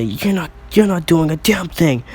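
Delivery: acted defiance under attack; defiant retort. Baku defies villain.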